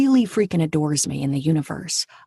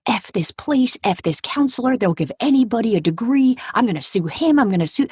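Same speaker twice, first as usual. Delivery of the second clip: retold rage; 4 semitones higher than usual. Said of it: "I was in such a rage".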